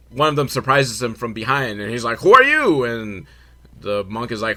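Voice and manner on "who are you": high, loud mock demand; sudden high-pitched retold yell; mock startling challenge. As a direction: pounce on him with a hammed-up challenge. Monk surprises him from behind.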